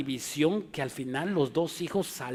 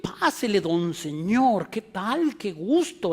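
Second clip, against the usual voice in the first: high, overly sweet flattery; butter up the boss with a bright high welcome; fawning greeting; 4 semitones higher, slower than usual. Retold or imitated. Preacher mocking how people flatter a superior, fawning and high. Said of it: "greeting the superior".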